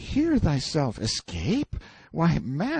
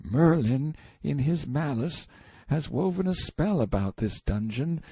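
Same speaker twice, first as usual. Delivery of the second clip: put-on high, cowering boy's voice; fearful confiding; 7 semitones higher than usual. A narrator's reading. Boy tells prisoner of forbidden things, fearful. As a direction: confide awful news in dread, high but voiced. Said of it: "told me his fearful news in a whisper".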